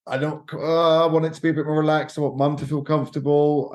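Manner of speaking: acted reluctance. Acting out her reluctance to book.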